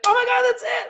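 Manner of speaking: thrilled yell of recognition; excited shout. Real, not acted. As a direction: burst out as it clicks. Recognizing dad's sign.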